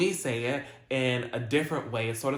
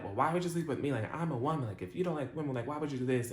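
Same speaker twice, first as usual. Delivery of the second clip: upset; 3 semitones higher, faster than usual. Retold or imitated. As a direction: plead in mild mock upset. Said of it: "She gets upset about it".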